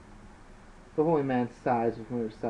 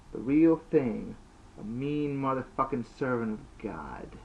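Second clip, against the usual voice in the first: bold; 2 semitones higher than usual. Acted. Priest boasting boldly.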